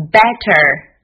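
"better" ending in a curled-tongue r; better with r-colour. Shown as a demonstration. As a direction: curl the tongue back at the end of "better". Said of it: "注意卷舌". (“better”词尾卷舌)

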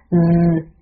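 嗯 as a buzzing z with vocal cords vibrating; voiced S. Shown as a demonstration. Teacher isolates the S in is, voiced S. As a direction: buzz the S of "is" as a held 嗯. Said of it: "声带震动".

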